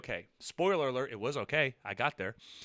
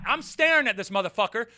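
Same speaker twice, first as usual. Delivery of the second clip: usual speaking voice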